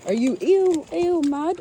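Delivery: high squealed ew; hammed-up disgust; mock disgust. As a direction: play the grossed-out version of yourself. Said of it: "which is it".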